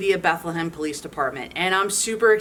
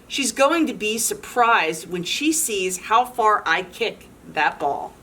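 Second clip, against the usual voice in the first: lively storybook read-aloud; animated picture-book narration; reading to children; 2 semitones higher than usual. A narrator's reading. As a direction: read it to a room of kids.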